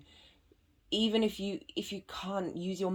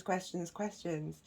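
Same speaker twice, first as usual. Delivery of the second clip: usual speaking voice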